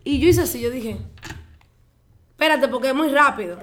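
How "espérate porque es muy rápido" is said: raised, louder mock-startled halt; hammed-up "hold on"; startled protest. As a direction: call a halt to it, playing up the surprise. Acting out her startled reaction.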